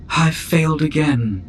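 slow, muffled droid voice; dejected droid, slow and muffled. A narrator's reading. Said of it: "came the muffled voice of the droid".

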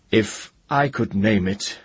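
high, urgent retort; young wizard blurting. A narrator's reading. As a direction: blurt it out to the dragon, then stop short. Ged blurts reply, then stops himself.

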